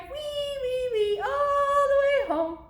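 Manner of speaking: very high piggy squeal, sung; high squealing sing-song. Acted. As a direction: squeal it up high like a little pig.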